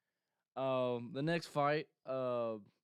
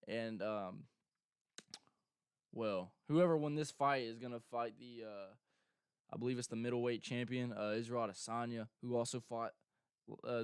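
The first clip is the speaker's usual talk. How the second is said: ordinary delivery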